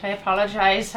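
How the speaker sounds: put-on rough first go at an Irish accent; lightly put-on Irish accent; terrible Irish accent. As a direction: attempt an Irish lilt, not quite landing it. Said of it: "that's a terrible Irish accent".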